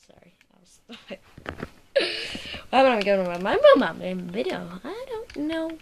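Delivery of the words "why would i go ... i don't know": giggling through the words, higher and loud; laughing. Real, not acted. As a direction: talk while cracking up. Laughing fit at own word.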